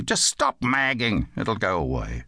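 gruff. Acted. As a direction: tell the child off with a touch of gruffness. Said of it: "he said gruffly".

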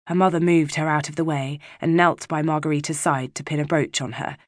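ordinary delivery, nothing marked

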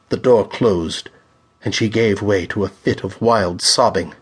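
usual speaking voice

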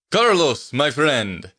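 put-on hearty, high Slavic-accented greeting; loud Slavic accent. A narrator's reading. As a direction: greet an old friend in a big Slavic accent. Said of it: "said loudly in a strong Slavic accent".

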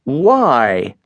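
a touch of anger, a sharp short why; mildly angry, demanding an answer; angry question. A narrator's reading. Smith angrily questions Wingfield about the unready guns, mildly angry. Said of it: "asked Smith angrily".

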